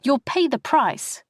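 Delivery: sharp sister's voice. Retold or imitated. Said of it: "Maxine's sharp voice in her head".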